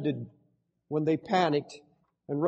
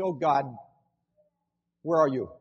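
complaining prayer; 3 semitones lower, 4 dB quieter than usual. Retold or imitated. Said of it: "stop complaining and say".

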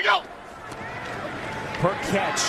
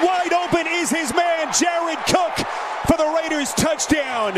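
rising excited play-by-play; touchdown call; 2 semitones higher than usual. Acted. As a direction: build to the score with excitement.

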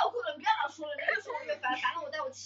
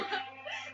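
mock crying wail; 8 dB quieter than usual. Mocking crying sound.

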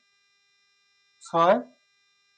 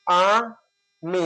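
syllable by syllable; much slower than usual. Shown as a demonstration. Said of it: "আগে অক্ষরটা নির্ণয় করা".

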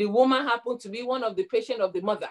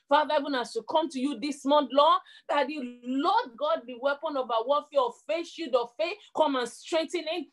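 prayer; 3 semitones higher than usual. Acted. Preacher praying over the congregation, fervent and raised. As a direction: call on God with rising fervour.

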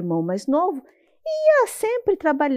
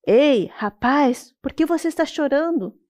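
lightly voiced turtle; 4 semitones higher than usual. Mysterious voice calls the boy.

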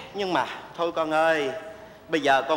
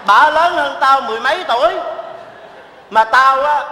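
loud explanation; 8 semitones higher, 8 dB louder than usual. Acted. Uncle explains his guess.

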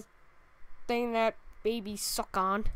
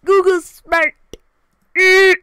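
excited; 9 semitones higher, 16 dB louder, slower than usual. Real, not acted. Delighted Google guessed it.

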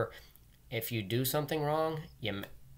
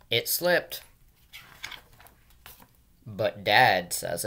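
put-on louder, slow kid pleading excuses; David's excuses; 3 dB louder, slower than usual. Teacher reading aloud, voicing little David's excuses, loud and slow. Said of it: "he always says".

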